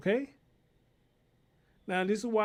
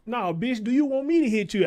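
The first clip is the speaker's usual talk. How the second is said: 1 yelling back at the teacher; 3 semitones higher, 6 dB louder than usual. Acted. Mocks teacher's question, yelling.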